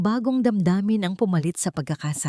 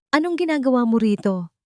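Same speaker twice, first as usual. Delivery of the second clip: louder, higher angry demand; angry question; 7 semitones higher, 3 dB louder than usual. A narrator's reading. Son confronts his wife at the hospital, angrily. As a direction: demand it harshly. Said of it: "pagalit na tanong ni Bantayog".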